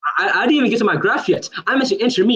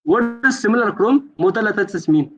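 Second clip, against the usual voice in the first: slower repeat; slower than usual. Real, not acted. Debater repeating a missed question to his opponent, slower. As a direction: repeat "simulacrum modalitatis" slowly for the listener.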